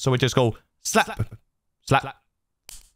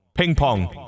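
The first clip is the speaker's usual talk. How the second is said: ping pong echo. Shown as a demonstration. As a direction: voice bouncing left and right. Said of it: "we've got ping pong".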